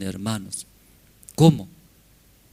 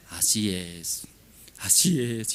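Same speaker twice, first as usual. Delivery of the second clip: hushed, half-whispered acceptance; mock tearful; 3 semitones lower, 3 dB quieter, slower than usual. Husband accepts wife's complaints in the game, mock tearful. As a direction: give in as if weeping quietly. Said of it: "llorando, así".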